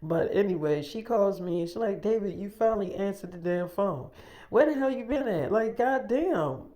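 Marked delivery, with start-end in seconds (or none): 2.0-6.6 higher-pitched exasperated retold scolding. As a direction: imitate a fed-up caller, pitch climbing. Caller scolds him for not answering.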